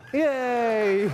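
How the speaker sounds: bright high cheer of success; cheerful yay. Real, not acted. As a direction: celebrate the win. Program runs, cheers.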